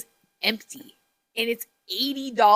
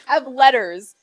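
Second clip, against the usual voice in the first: laughing; 10 semitones higher, 9 dB louder than usual. Real, not acted. Laughing loud.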